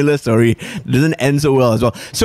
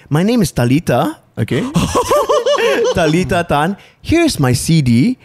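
put-on little girl fan; 8 semitones higher than usual. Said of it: "this little girl says".

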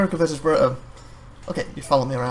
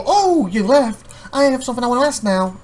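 mock customer; 7 semitones higher than usual. Customer calling after the assistant, mock high. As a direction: pretend to chase the clerk.

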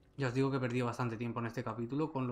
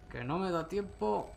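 high anxious slow plea; frightened high complaint; panicked; 6 semitones higher, slower than usual. Real, not acted. Enemy catching up.

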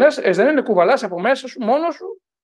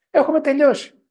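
higher and louder, hammering the verdict; emphatic warning; 8 semitones higher, 4 dB louder than usual. Real, not acted. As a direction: strike έχουμε hard and let τελειώσει fall.

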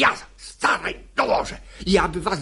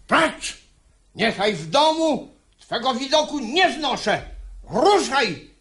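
angry dismissal; 4 semitones higher than usual. Acted. Father banishes son.

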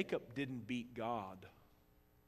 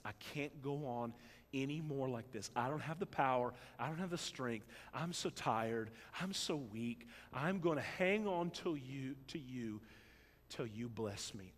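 mild weeping plea. Acted. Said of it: "weeping his heart out as he says".

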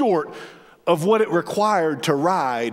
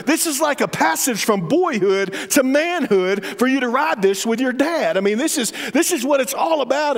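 pleading dad; 4 semitones higher than usual. Retold or imitated. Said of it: "I said".

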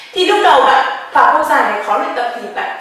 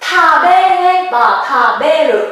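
slow demo word; 2 semitones higher, 3 dB louder, slower than usual. Shown as a demonstration. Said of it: "nếu là động từ tabemasu".

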